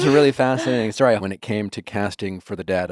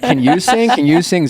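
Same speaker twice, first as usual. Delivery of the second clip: 1 eager asking; 9 semitones higher, 5 dB louder than usual. Retold or imitated. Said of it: "everyone's like".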